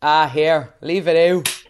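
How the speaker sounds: real Dublin accent. Shown as a demonstration. Host shows guest real Dublin slang, Dublin accent. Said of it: "like a real Dublin".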